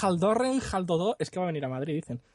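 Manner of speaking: mock Swedish. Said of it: "en sueco".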